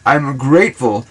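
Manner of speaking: tender affirmation. Shown as a demonstration. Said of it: "you can talk to them like that".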